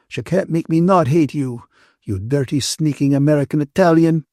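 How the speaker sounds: cross Ferguson, scolding. A narrator's reading. Ferguson rebukes the man who got Catherine into a mess, scolding. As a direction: scold them as the disapproving friend.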